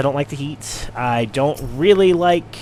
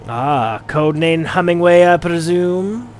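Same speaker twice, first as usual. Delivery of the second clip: a lightly voiced smug villain, slow at the end; sly presumption, draw out the question; 5 semitones higher, 4 dB louder, slower than usual. Narrator voicing a villain to the hero, lightly sly.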